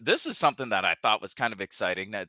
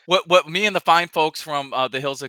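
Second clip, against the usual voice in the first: loud hammed-up huffy rant; mock indignant; 4 semitones higher, 11 dB louder than usual. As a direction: play it huffy and offended.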